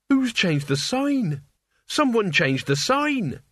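high, slow, horrified; stunned by the changed world; alarmed. Acted. Mort panics at sign.

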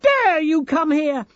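loud, high, slow indignation; fierce, high-pitched challenge; outraged shout. A narrator's reading. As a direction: shout it, stretching each word in outrage. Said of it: "she shouted".

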